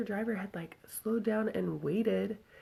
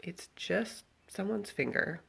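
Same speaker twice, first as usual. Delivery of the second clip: matter of fact; slower than usual. Retold or imitated. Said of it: "was so just matter of fact".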